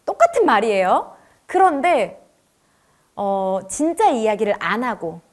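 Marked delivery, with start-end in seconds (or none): none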